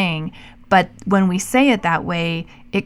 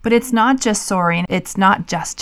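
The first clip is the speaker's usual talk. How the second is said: not pressed a little; not leaned on lightly; stress on not. Shown as a demonstration. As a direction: lean on the word not. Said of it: "It's words like actually".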